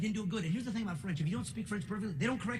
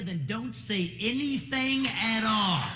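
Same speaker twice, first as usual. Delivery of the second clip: slow grandma finish; 3 semitones higher, 4 dB louder, much slower than usual. Retold or imitated. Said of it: "my grandmother used to tell me".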